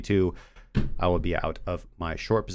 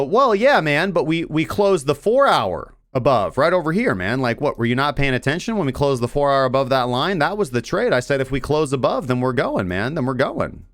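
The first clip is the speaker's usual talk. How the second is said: higher and louder, a know-it-all analyst brushing off critics; mocking smug analyst; 4 semitones higher, 3 dB louder than usual. Mocking the analyst who claims he was right all along. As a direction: play the smug after-the-fact analyst. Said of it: "So the analyst can just go".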